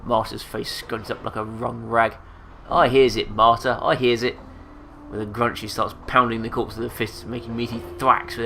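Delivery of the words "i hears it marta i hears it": muttering to herself. Acted. Marta answering herself.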